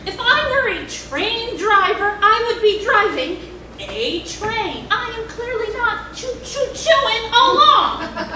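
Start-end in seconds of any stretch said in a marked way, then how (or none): 4.9-8.4 sarcastic. Acted. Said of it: "be sarcastic".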